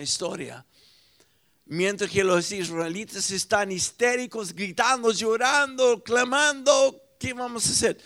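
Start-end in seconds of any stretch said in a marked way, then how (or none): 1.7-8.0 mounting alarm. Retold or imitated. Israelites crying out.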